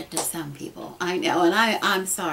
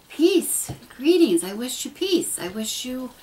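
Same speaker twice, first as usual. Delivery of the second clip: heartfelt greeting; 5 semitones higher, 5 dB louder than usual. Retold or imitated. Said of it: "I said from the heart".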